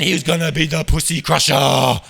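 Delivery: put-on epic voice; hammed-up triumphant proclamation; mock announcer hype. Hyped mock-epic boast about mate.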